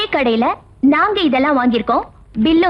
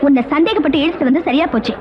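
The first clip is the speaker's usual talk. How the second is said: usual speaking voice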